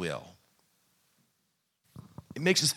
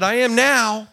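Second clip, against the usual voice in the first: curt retort; 7 semitones higher, 7 dB louder, slower than usual. Retold or imitated. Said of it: "I said".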